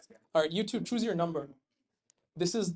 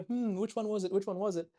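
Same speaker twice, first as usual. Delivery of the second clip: lightly acted pondering, pitch raised; puzzled team member; 2 semitones higher, 3 dB quieter than usual. Showing players how to confer, mock pondering. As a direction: mimic teammates puzzling it out. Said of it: "you've got to talk to each other".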